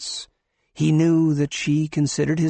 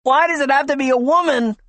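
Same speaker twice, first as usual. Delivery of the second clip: high, loud despairing wail; woman wailing among the crowd; 13 semitones higher, 5 dB louder than usual. Acted. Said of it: "wailed a woman".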